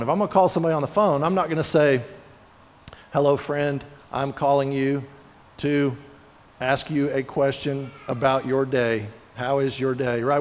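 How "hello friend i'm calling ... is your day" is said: flat and lifeless. Retold or imitated. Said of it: "We put the energy into it".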